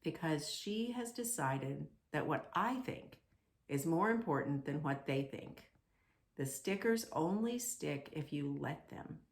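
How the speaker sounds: soft, gentle reassurance; softly. Acted. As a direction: speak softly to calm the little one. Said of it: "The maker spoke softly".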